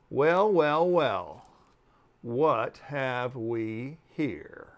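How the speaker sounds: slow, loud, sly drawn-out welcome; smug insect greeting. Acted. Insect sizing up the newcomer, slow and smug. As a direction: savor each word like a sly host.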